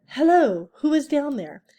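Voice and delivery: calling out into a dark hole. Acted. Robot calls into the hole.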